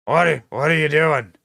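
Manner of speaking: voiced, put-on mimicry of a confused mutterer; mock impression. Host mimicking the president's aside, mocking. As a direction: imitate the stumbling question aloud. Mimicking the clip just played.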